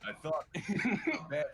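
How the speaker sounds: put-on loose, lightly done Australian accent; Australian accent, half laughing through it. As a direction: play it as a laid-back Australian bloke. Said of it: "I don't know why he's Australian now".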